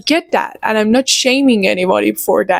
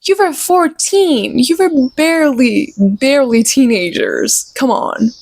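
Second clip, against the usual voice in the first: higher, incredulous scoff; exasperated retort; 3 semitones higher than usual. Retold or imitated. Reviewer mocking teen lovers, incredulous scoff. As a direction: roll your eyes at teenage drama. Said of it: "I'm like".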